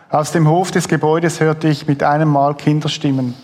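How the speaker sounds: steady book reading; lightly moved reading of a memoir scene; reading aloud from a book. Acted. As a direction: read the passage to the audience. Host reads book passage aloud.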